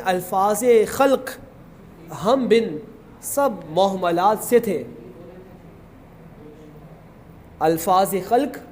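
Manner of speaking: slow, measured verse reading; poetry recitation. Acted. Teacher reads a couplet to the class, slow recitation. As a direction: recite the couplet slowly, drawing out key words.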